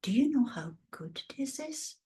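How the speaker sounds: whispery, wondering question rising at the end; jaw-dropped amazement. Retold or imitated. Coach reacts to a client's idea, hushed amazement. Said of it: "my jaw drops".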